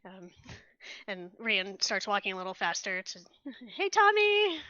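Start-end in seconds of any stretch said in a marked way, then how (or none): 3.8-4.6 high, loud call across the street. Acted. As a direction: shout his name to get his attention. Rian calls after drunk Tommy.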